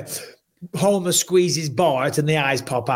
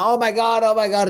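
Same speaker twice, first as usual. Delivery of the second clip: retold distress; 7 semitones higher than usual. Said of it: "I'm like".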